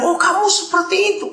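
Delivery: high-pitched, imitated astonishment; surprised reaction. Friend hearing speaker's body-donation wish, acting surprised.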